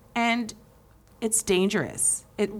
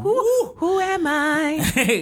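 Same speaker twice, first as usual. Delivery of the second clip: dramatic mock question; 8 semitones higher, much slower than usual.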